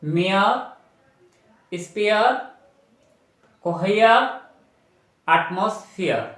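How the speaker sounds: each word said apart, slowly, ending in "ईयर"; clear word demo. Shown as a demonstration. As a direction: model each word slowly for the class, "मेयर", "स्पेयर". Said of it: "फिर words पढ़ के बता रहा हूँ".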